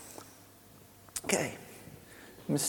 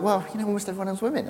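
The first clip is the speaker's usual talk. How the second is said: mock protest, higher and quick; dismissive colleagues; 6 semitones higher, faster than usual. Colleagues waving away a complaint, mock dismissive. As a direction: imitate a brisk, higher-pitched brush-off.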